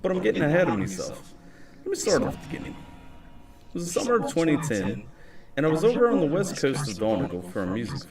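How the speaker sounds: put-on a light Irish accent, telling a tale. Reading his story to stream chat in an Irish accent. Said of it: "We'll do the Irish accent".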